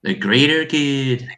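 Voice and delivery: slow, drawn-out Gloucestershire attempt; Gloucestershire accent. Shown as a demonstration. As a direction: draw it out in a mock Gloucestershire accent. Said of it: "why don't you go for the greater good".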